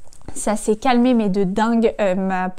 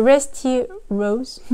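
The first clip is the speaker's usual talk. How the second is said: carefully slowed English accent; French speaker putting on English; showy English accent; much slower than usual. Shown as a demonstration. Vlogger showing a lipstick shade, showy English accent. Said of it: "On remarquera mon super accent".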